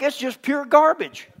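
emphatic shout. Real, not acted. Preacher's emphatic outburst.

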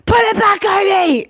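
put-on high, loud kid voice; squeaky bossy little boy telling his brother off; imitating a little boy. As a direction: mum mimics her son scolding his brother, high and loud. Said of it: "Bobby's like".

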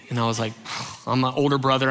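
ordinary talk

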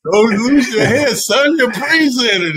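high barking coach, repeated; barking gym coach. Retold or imitated. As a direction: snap it like a coach on the sideline. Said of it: "he told me".

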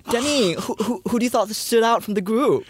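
high-pitched mock questioning; put-on voice, pressing for an answer; Khloe Kardashian. Acts out Khloe questioning Demi.

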